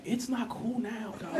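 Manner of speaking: soft, slow under-the-breath reply; muttered aside. Retold or imitated. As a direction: say it to yourself, amazed.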